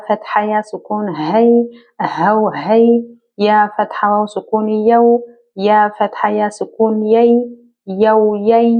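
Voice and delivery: measured, level-pitched syllable chant, each blend held out; spelling drill recitation. Shown as a demonstration. Teacher leads learners reading leen letters, chanted drill recitation. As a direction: recite letter by letter in an even, sing-song teaching rhythm.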